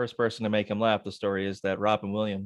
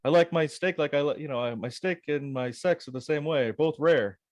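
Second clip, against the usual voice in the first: a hint of Rodney Dangerfield, pitched up; one-liner in a lightly put-on comic voice; Rodney Dangerfield impression; 4 semitones higher than usual. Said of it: "That's a good impression".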